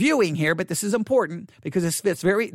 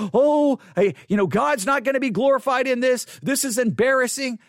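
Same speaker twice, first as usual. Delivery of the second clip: mock fretting; 5 semitones higher than usual. Pastor imitating his old self fretting over a mistake, mock dismay. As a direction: fret aloud in exaggerated embarrassment. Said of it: "I don't sit there and say".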